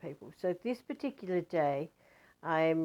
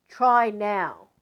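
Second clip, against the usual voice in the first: firm invitation; 3 semitones higher, 9 dB louder than usual. Retold or imitated. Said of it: "he goes".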